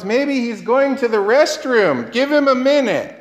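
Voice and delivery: lightly teasing mock excuse, lifting at the end. Elijah to the false prophets about their absent god, mocking. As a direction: needle them with a pretend excuse. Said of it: "He's mocking them".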